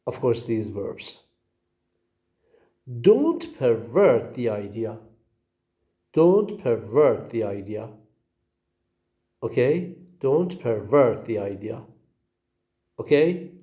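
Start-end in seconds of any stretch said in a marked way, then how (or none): 3.0-5.0 "pervert" said per-VERT, the VERT punched; stress on second syllable. Shown as a demonstration. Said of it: "the stress on the second syllable". 6.1-7.9 "pervert" said per-VERT, the VERT punched; stress on second syllable. Shown as a demonstration. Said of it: "the stress on the second syllable". 10.2-11.8 "pervert" said per-VERT, the VERT punched; stress on second syllable. Shown as a demonstration. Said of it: "the stress on the second syllable".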